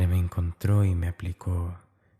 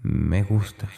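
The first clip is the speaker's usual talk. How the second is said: sinister whisper; slower than usual. Acted. James admitting to Dani he likes it, whisper. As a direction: let it trail into a dark secret.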